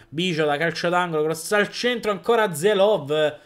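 rising excited live commentary; breathless italian goal commentary. Real, not acted. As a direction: call the goal as it happens.

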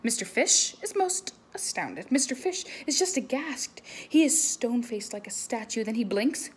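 animated picture-book reading; story reading to children. Acted. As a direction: read it big for the kids.

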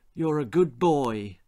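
weary, gentle mother; tired mother voice. Acted. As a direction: speak as a worn-out mother.

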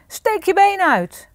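loud, high, drawn-out order; angry shouted command. A narrator's reading. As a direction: bellow it as the cross ogre. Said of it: "riep de menseneter boos". (boos geschreeuwd bevel)

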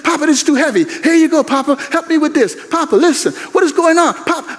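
granddaughter pleading. Retold or imitated. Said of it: "my granddaughter comes and says".

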